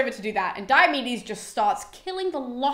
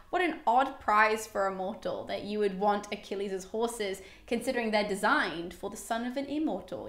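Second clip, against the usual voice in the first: chilling amused taunt; 2 semitones lower, 6 dB quieter than usual. Retold or imitated. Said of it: "quite chilling because he starts laughing".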